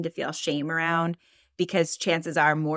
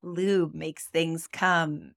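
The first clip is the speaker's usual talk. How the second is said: sexy elevator voice; much slower than usual. Retold or imitated. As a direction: purr it like a sultry announcer. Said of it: "like, sexy elevator voice".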